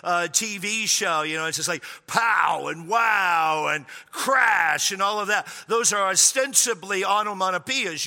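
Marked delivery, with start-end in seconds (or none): 2.1-4.9 drawn-out punchy sound-effect words; comic-book exclamations. Shown as a demonstration. Pastor illustrating old Batman show sounds, drawn-out exclamations. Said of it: "You make a, a sound with your voice".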